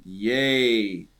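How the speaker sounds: slow, deadpan hallelujah; mock solemn celebration. Mocking a joyless church cheer, deadpan. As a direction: cheer with no joy at all, tongue in cheek. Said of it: "just kinda laughing at the fact".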